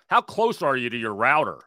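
lightly mocking a scripted help-desk question; mimicking tech support. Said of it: "when you call and you have, uh, Wi-Fi issues, they just".

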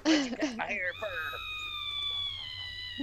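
very high, very slow wail; wailing Rapunzel. Acted. Rapunzel wailing at the witch, very high and drawn out. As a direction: stretch it into a high lament.

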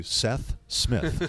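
slow call with a pause between Seth and Smith; slowly, like play-by-play, gap between Seth and Smith; over enunciating. Shown as a demonstration. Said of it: "a big space between the Seth and the Smith".

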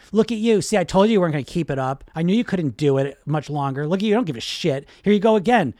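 loud, mocking inner critic; scolding inner voice. Coach voicing a client's inner critic after a slip, loud and scolding. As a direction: berate yourself as the negative voice in your head. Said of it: "this other voice comes and said".

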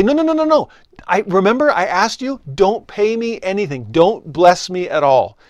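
high, insistent no no no; protesting. Acted. Believer frantically refusing God's blessing.

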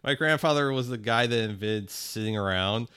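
high laughing lazy rich man; lazy rich old man. Retold or imitated. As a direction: ham up a lazy old money gent. Mocking an idle rich grandfather.

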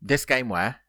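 measured chunks, left hanging for confirmation; three words at a time. Shown as a demonstration. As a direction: read it out in threes, pausing after each. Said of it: "I'll do it three words at a time".

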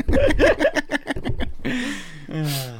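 real amused laugh. Real, not acted. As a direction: laugh out at the burp. Laughing at burp.

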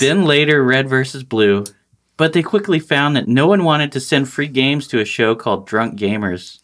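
even, practised announcer-style read; scripted promo read. Acted. Host introducing Rooster Teeth to listeners, scripted promo read. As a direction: read it out like sponsor copy.

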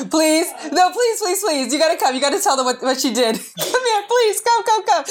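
high pleading. Real, not acted. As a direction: beg sweetly and high. Begging daughter to come.

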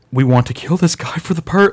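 high, loud put-on villain; posh villain voice. Purgers at the door demand the stranger, high put-on villain voice. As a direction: sneer it like a polite psycho. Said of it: "he talks like this".

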